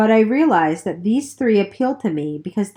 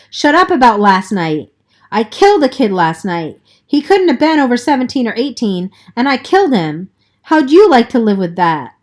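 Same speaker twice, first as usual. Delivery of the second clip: crying; 4 semitones higher, 6 dB louder than usual. A narrator's reading. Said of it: "He was crying".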